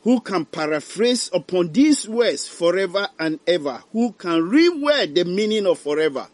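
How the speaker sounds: high, loud anguished wail of a dying man; dying man's lament. Acted. Dying sinner wails about eternity, high and anguished. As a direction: cry out in dread of eternity. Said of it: "Ɔse".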